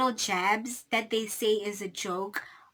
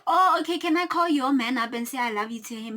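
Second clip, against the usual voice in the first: sarcastic comeback; 2 semitones higher than usual. Retold or imitated. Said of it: "Flower was like".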